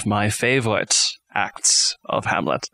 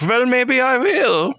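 very high, drawn-out mock maiden; slow falsetto with a German accent; Ophelia; 4 dB louder than usual. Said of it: "she's like".

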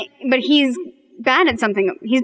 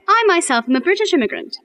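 higher-pitched put-on British accent; 6 semitones higher than usual. Shown as a demonstration. Showing Scape what an accent is, British accent. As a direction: lift it into a demo British accent. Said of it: "Or I could say".

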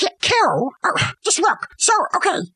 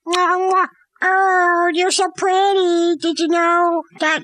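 smoochy mock lover; 2 semitones higher, slower than usual. Hamlet's letter, mooing kisses.

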